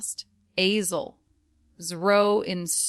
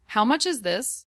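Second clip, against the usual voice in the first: "much" given the weight, pitched up; stress on MUCH; 4 semitones higher, faster than usual. Shown as a demonstration. Teacher models the price question for repeating, stress on "much". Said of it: "and stress much".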